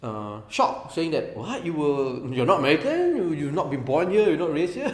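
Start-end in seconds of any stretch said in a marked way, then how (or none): 1.4-4.9 shocked teachers. Retold or imitated. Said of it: "some of my teachers expressed, uh, shock".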